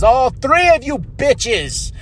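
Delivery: high, slow wrestler call-out; Toni Storm. Acted. Toni Storm pointing out three rivals, slow high challenge. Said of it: "He says".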